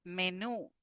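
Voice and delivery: menú with stress on the last syllable, me-NÚ; teacher modelling menú; model word. Shown as a demonstration. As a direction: lean on the final ú of menú. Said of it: "the stress, sorry, in the last syllable".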